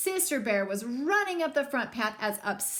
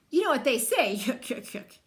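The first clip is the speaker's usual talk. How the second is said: chuckling; 4 dB louder than usual. Acted. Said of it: "chuckling at his own joke".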